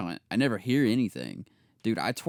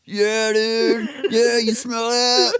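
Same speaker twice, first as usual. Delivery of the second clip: loud, high, gleeful mock yell; imitating laughing outburst; 11 dB louder, much slower than usual. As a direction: crow it like a prankster who's cracked up. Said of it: "he just busts out laughing".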